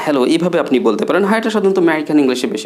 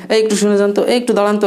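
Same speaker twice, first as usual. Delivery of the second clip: higher, eager call to get someone's attention; 6 semitones higher, faster than usual. Retold or imitated. Teacher calls out to a stranger to get attention, raised voice. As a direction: call out to a passerby to stop.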